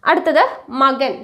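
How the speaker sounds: normal talking voice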